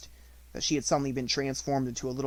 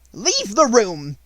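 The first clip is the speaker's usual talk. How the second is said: very slow, much louder cold command; one word at a time; ordered; 9 semitones higher, 10 dB louder, much slower than usual. A narrator's reading. Headmistress ordering the crying maid out, slow and loud. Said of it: "ordered Miss Minchin".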